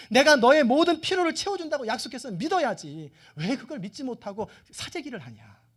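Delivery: angry God. Acted. God rebuking Israel for hoarding manna, in acted anger. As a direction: scold them insistently, voice climbing then easing. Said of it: "하나님이 이때는 화가 났어요".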